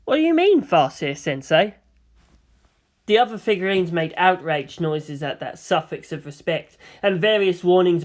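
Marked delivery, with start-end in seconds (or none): 0.1-1.7 put-on puzzled boy. Sleepy boy questions the seer.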